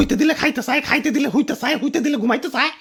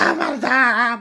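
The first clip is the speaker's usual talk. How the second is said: drawn-out lament; comic wail; 3 semitones lower, much slower than usual. Acted. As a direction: bemoan it as if breaking into sobs. Same wail after being sold cheap.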